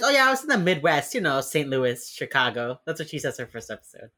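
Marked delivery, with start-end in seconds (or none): 0.0-2.8 breezy fib. Retold or imitated.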